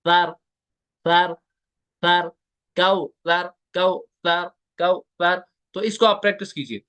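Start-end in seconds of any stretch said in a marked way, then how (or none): 0.1-2.3 सर with a plain hissing s; सर said the wrong way, whistling s; wrong sar. Shown as a demonstration. Teacher showing students the wrong सर. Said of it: "सर नहीं पढ़ना". 2.8-5.4 कौसर said as kauthar; correct tha. Shown as a demonstration. Teacher showing the right कौसर. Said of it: "ये सा है".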